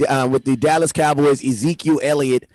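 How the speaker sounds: screechy, overdriven mic; crackly, distorted audio. Real, not acted. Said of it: "You sound really distorted".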